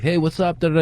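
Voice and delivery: casual greeting with a hint of a Jordanian accent; slight Jordanian accent. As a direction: softly voice a laid-back Jordanian accent. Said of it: "They have a slight accent".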